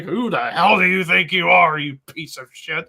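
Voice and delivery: hammed-up berating; mock angry Vince. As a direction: dress him down in a put-on voice. Vince berating Cole, retold.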